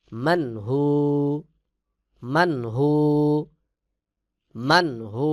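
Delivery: মানহু with the nun said clearly before হু; correct pronunciation. Shown as a demonstration. Teacher models the correct মানহু. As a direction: say মানহু slowly and keep the nun distinct. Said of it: "সহিভাবে যদি পড়ি".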